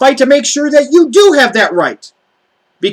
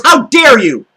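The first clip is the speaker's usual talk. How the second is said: angry shout. Real, not acted. Furious rant at Alex Jones.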